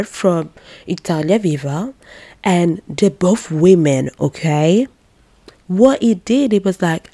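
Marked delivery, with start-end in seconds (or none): none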